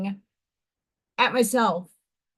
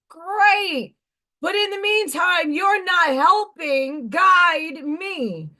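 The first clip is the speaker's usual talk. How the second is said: higher-pitched, drawn-out complaint without full volume; retold self-scolding scream; 4 semitones higher, slower than usual. Woman protesting upward at getting no guidance, restrained mock scream. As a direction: retell a scream as pleading protest. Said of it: "why I was screaming at myself".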